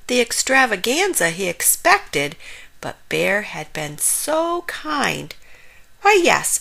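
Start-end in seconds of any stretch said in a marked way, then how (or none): 6.0-6.6 high, put-on cheer; smiling exclamation. A narrator's reading. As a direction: exclaim with a big smile in the voice. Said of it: "exclaimed Frog, putting on a big smile".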